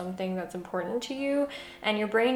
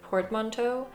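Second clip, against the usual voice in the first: portmanteau in a broad American accent, port-man-toe. Real, not acted. Speaker uses French loanword, broad American accent. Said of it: "I just said in an incredibly American accent".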